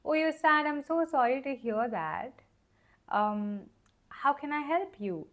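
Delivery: a gentle friend soothing someone who's sad; loving, caring reply. Shown as a demonstration. Friend comforting a sad person, gently caring. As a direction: tenderly offer help, like a kind friend. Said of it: "the more loving way of saying".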